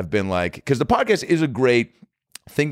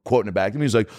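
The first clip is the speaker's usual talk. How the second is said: normal talking voice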